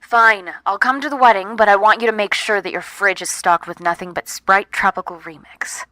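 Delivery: grudging loud. Acted. Reluctantly giving in.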